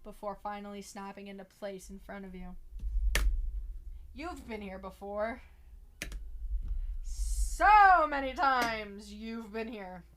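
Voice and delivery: measured second-person game narration; story narration. Acted. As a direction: read it like a suspenseful storyteller.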